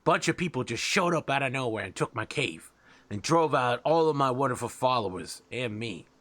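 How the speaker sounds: a lightly voiced wheedling rat boss; scheming rat king. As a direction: pitch the job like a shifty rat king.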